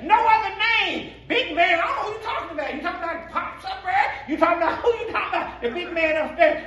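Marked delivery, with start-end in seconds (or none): 1.3-6.7 mock confusion. Mocking confused listener.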